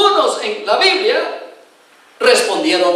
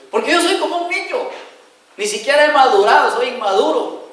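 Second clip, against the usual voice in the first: put-on much higher, childlike excuse; childish plea; 4 semitones higher than usual. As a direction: whine like a little boy. Jeremiah pleads being a child.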